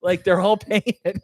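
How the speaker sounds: high, lightly voiced lunch lady; a hint of a cafeteria lady. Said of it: "lunch lady voice".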